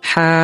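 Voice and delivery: হা squeezed from a tightened throat; throat-pressed ha. Shown as a demonstration. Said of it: "কণ্ঠনালী একটু চেপে চেপে".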